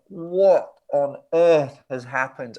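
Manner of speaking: slow, stretched disbelief; mild mock freak-out; retold bewilderment. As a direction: drag the words out, dazed.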